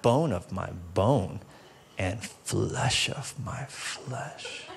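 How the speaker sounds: low, slow, hushed recital, cracking into a laugh; mock poetic recital. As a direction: recite it like a swooning lover, then crack up. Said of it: "here's how the poem went".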